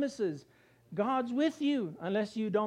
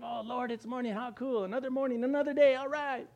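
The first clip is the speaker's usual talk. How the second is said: cheerful morning; 4 semitones higher than usual. Retold or imitated. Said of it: "really with the Lord".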